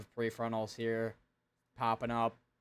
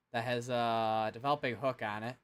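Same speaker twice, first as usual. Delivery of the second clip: ordinary delivery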